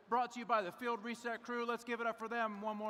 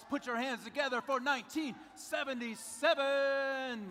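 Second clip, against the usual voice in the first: hype shout; 4 semitones higher, 3 dB louder than usual. Acted. Hyping crowd for team.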